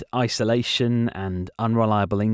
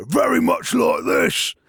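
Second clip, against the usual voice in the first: barbarian warrior; 6 semitones higher, 4 dB louder than usual. Shown as a demonstration. Interviewer showing a voice they can do, shouted barbarian warrior. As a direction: bellow it like a warrior. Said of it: "a barbarian warrior".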